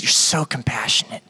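grudging praise ground through the teeth; through gritted teeth. Retold or imitated. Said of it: "grimacing this, this phrase through his teeth".

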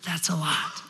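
softly awed bunny child, lightly voiced; a hint of a small, amazed kid; little rabbit. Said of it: "The little rabbit says".

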